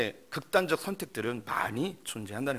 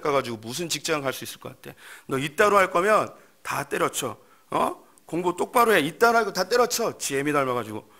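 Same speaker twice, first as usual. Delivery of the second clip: angry father; 2 semitones higher, 4 dB louder than usual. Acted. Father yelling at his son over a report card, angry.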